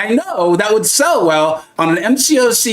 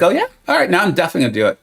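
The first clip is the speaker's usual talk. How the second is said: put-on defiant kid; much faster than usual. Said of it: "I'd be like".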